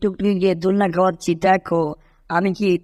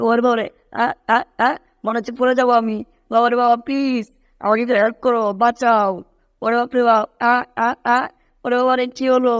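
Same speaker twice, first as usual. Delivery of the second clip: higher-pitched, frantic cries of fear; panicked cry for help; 4 semitones higher than usual. Acted. Tom wobbling on a high perch calls for help in a frantic high voice. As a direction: yelp as if about to fall. Falling while climbing, begs help.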